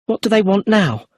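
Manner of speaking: worried, climbing question; nervously. A narrator's reading. Brenda fretting about the inspector, nervous and high. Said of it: "said Brenda nervously".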